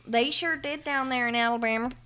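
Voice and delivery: a lightly put-on Southern twang; mock Southern accent. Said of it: "we're doing a real bad job of doing a Southern accent".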